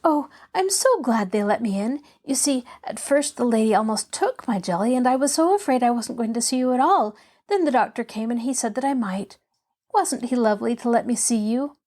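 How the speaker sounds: lightly voiced chatty girl, gladly gushing; mildly excited, artless child's chatter; eager young Pollyanna. Girl telling the patient how she got in, gladly chattering.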